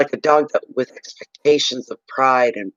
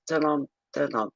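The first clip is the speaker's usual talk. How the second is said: plodding walk sound; 8 dB quieter than usual. Retold or imitated. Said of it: "And she was just".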